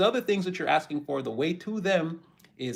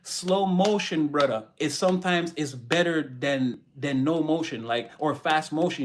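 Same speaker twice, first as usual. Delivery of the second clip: put-on Jamaican accent. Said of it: "in the Jamaican accent".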